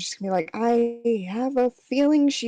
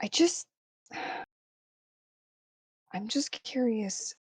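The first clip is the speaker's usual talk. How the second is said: whisper, quieter; 7 dB quieter than usual. Voicing a character asking two others to search quietly: whispering in character. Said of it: "talking in a whisper".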